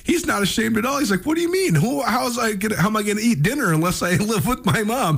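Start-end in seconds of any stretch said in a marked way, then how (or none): 1.2-5.2 high, mock heavy Italian-American accent. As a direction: play him baffled in a hammed-up New York Italian accent. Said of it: "he talks with this heavy Italian accent".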